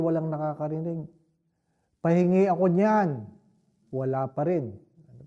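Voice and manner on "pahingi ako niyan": a firmer, louder second ask with the stress on niyan; old priest asks again louder at the dinner table; louder request. Retold or imitated. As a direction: repeat the request louder because nobody answered. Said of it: "Kunwari, bingi yung mga formator".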